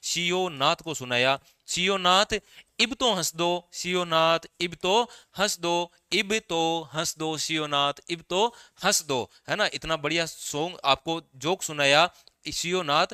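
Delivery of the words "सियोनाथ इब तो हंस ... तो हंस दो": teasing sing-song plea, a bit higher; mock begging him to laugh; playful coaxing. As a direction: coax a friend into laughing. Teacher acts joke-teller coaxing Sionath.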